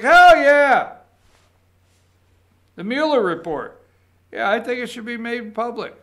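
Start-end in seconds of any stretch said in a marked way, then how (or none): 0.0-1.0 mock enthusiastic yes. Mock poll respondent answering.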